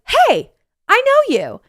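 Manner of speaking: high, loud mock confrontation; calling out. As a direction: call them out across a coffee shop. Acted calling out to passer-by.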